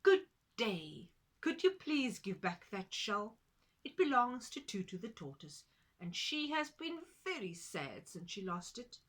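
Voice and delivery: loud, courteous duck voice; a touch of politeness; polite duck. Acted. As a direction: ask nicely as the duck. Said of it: "said politely".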